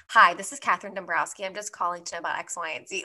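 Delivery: brisk, businesslike phone voice; a touch of formal caller; professional phone voice. Shown as a demonstration. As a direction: sound all business on the phone. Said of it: "I go full on hardo".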